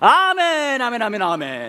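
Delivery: very high, very slow, forceful belly-driven amens. Showing the amen four combo: amen pushed from the belly. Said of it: "배에 힘을 주고 이렇게 하는 거거든요".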